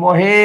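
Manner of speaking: মহে with the final e held long; stretched final vowel. Shown as a demonstration. Teacher locating the e-kar for students, মহে with its last vowel stretched. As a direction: draw out the e at the end of মহে. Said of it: "একার আছে কোথায়?".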